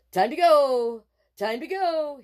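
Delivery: loud, high hurry-up cry; urgent. Acted. Boy fleeing from the bear, urgent cry. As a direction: get out of here fast.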